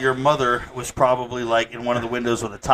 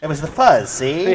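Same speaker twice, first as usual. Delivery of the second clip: 1930s gangster; 5 semitones higher, 3 dB louder than usual. Pretend. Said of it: "nineteen thirties gangster".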